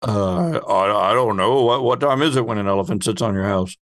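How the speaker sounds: ordinary talk, nothing marked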